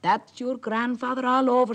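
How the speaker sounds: a hint of a delighted old fellow; lightly voiced hearty Merrow. Merrow cheers Jack on, hearty and loud.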